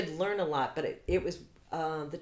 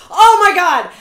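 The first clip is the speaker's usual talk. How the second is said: sudden loud, higher "oh my God"; startled gasp; 12 semitones higher, 20 dB louder, slower than usual. Retold or imitated. Someone tripping, startled exclamation. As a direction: blurt it as you trip. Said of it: "in that split second".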